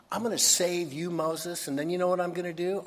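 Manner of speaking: high and urgent, building excitement; fervent promise. Retold or imitated. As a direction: burst out with an impassioned promise. God's promise to Moses builds excitedly.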